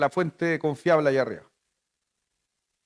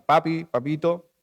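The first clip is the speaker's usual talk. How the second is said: tender papito. Shown as a demonstration. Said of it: "yo la grafico como papito".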